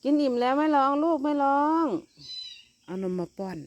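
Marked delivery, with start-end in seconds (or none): 0.0-1.9 cooing to kittens. Real, not acted. Cat feeder soothing full kittens, high cooing baby talk.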